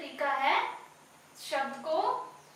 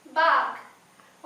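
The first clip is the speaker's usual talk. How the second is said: बाग stretched very long and louder; drawn-out meaning; 8 dB louder, much slower than usual. Shown as a demonstration. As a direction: draw out बाग slowly for the children. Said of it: "उपवन means". (बाग को खींचकर बोलना)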